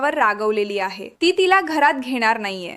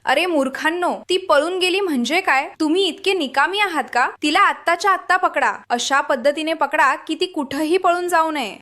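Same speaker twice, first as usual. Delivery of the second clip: angry shout; 3 semitones higher than usual. Acted. Rajkumar on the phone yelling at his goons, furious. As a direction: bark orders at the fools who lost her. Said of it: "तो चिडून ओरडतो".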